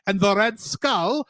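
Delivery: put-on Cockney drifting into German; wobbly Cockney accent that slips towards German. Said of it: "You went total Cockney".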